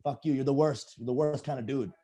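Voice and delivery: high, panicky put-on voice of a self-hating snob; a hammed-up disgusted brat; mocking snob. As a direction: play the snob recoiling, then sneering. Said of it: "you're like".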